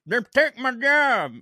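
high, loud, stretched-out cartoon yokel cry; South Park character. Co-host quoting a cartoon complaint, South Park character voice. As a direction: whine it out high and slow in a cartoon voice. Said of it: "at South Park".

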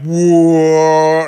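drawn-out mock stagger; dazed reeling cry. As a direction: mimic reeling from a blow. Acts out reeling from kick.

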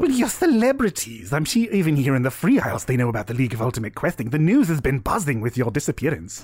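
lightly voiced eager enthusiast; overambitious Delilah. Delilah flattering the questing party, eagerly. Game master plays Delilah.

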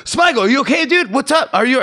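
high, urgent checking-on-him voice; retold panic. Comic calling to fallen friend, high mock panic.

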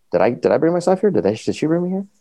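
high, bewildered questions; confused panic. Retold or imitated. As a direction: voice jumps up in alarm, retold. Waking confused in health center.

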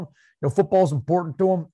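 a light Southern twang on football's important; Southern coach voice. Retold or imitated. Echoing the coach impression for his co-host, light Southern twang. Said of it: "a little bit of Jay Gruden".

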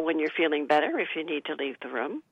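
soft unvoiced whisper; a hushed, caring whisper. Shown as a demonstration. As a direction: whisper it gently so as not to upset. Gentle words to an upset elder.

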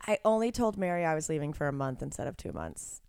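hushed confession; whispering. Real, not acted. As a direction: whisper it like a guilty secret. Confessing a secret.

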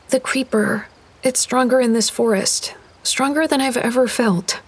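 put-on a child's eerie warning; girl's hushed warning. Girl warns of creeper.

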